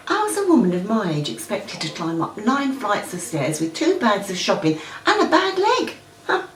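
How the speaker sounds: acted indignation, pitch climbing high towards the end; indignant grumbling. Older tenant complaining about nine flights of stairs, indignant. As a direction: grumble in rising disbelief at the unfairness.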